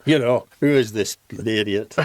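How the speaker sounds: put-on Lancashire accent. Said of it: "With a Lancashire accent, with a Bolton accent".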